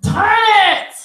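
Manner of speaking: high, loud crying cry-out; tearful outburst. Real, not acted. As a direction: burst out through tears. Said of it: "Hold on, y'all".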